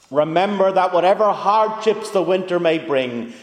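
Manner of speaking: orate it slowly like Obama to a cheering crowd; lightly voiced Obama speaking to an Irish crowd; Obama impression.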